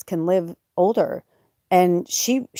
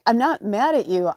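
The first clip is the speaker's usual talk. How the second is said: raised-pitch, upset insistence; retold tearful reassurance; 5 semitones higher than usual. Owner assuring her cat, tearfully. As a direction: act out protesting through tears. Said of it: "I started crying".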